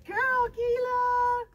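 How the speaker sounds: high happy praise. Real, not acted. Trainer praising puppy in a high happy voice. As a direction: gush at the puppy.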